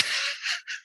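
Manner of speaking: short laugh mimicking the attacker; brief mocking chuckle as the man watching; imitated laughing. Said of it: "he's just sitting there laughing".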